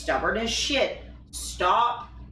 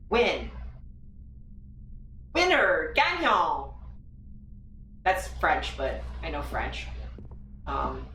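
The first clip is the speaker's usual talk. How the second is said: normal talking voice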